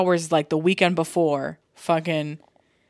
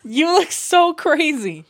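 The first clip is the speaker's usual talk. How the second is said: high, slow, laughing through it; cracking up at a friend; 9 semitones higher, 5 dB louder, slower than usual. Real, not acted. Still laughing at Jose.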